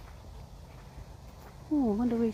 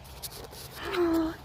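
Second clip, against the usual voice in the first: long high gasp of delight; real excited intake of breath; 9 semitones higher than usual. Real, not acted. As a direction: gasp at seeing a beloved animal. Delighted at meeting the horse.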